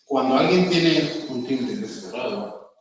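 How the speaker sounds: slow, muffled closed-off voice; closed dull timbre. Shown as a demonstration. Teacher demonstrating a closed dull voice to class. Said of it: "habla así".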